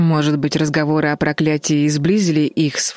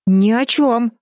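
quick guilty denial; 7 semitones higher, slower than usual. A narrator's reading. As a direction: caught out, deny it fast. Sisters caught, deny in chorus.

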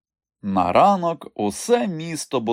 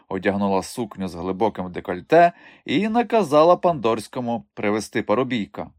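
ordinary talk, nothing marked

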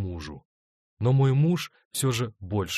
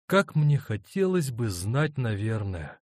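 pensive; 3 semitones higher, slower than usual. Acted. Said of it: "задумчиво проговорила она".

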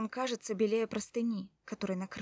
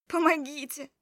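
loud desperate cry, higher; cry for help; 5 semitones higher, 8 dB louder than usual. A narrator's reading. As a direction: scream for help in a strange voice. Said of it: "Я крикнула каким-то незнакомым голосом". (крик о помощи незнакомым голосом)

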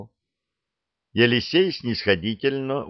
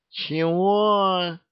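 high, odd-voiced drunken huh; a hiccupy, tipsy what; 10 semitones higher than usual. Жених переспрашивает, пьяно икая. (высокое пьяное «Чего?»)

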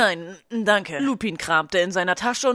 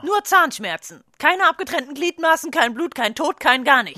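higher and louder, incredulous; exasperated outburst; 5 semitones higher, 5 dB louder than usual. Acted. Nurse scoffing at a mere toothache, loud and higher. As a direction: throw the complaint up in disbelief.

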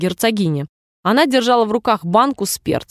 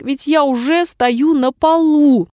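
mild objection; 6 semitones higher, 4 dB louder, slower than usual. A narrator's reading. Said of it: "возразил шляпник".

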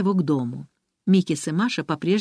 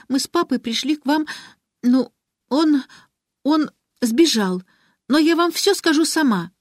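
put-on high, halting child's voice; trembling voice; 8 semitones higher, 3 dB louder than usual. A narrator's reading. Girl nervously starting her proposal to Ariadna, trembling. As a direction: push through nerves haltingly. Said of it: "дрожащим голосом начала Алиса".

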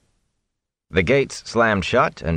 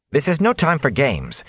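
higher, sharp angry rebuke; higher irritated retort; 7 semitones higher than usual. Acted. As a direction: snap at her for playing games. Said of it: "Nynaeve began angrily".

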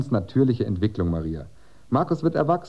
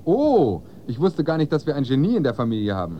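sarcastic; 2 semitones higher, 5 dB louder than usual. Acted. Father mocks his son.

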